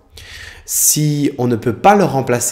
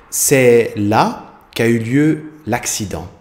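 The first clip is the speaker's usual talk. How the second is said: slow example sentence; slower than usual. Shown as a demonstration. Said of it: "On écrit là".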